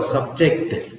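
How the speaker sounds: subject stressed up front, SUB-ject; "subject" with a full, strong SUB; stress on first syllable. Shown as a demonstration. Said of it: "stress on the first syllable".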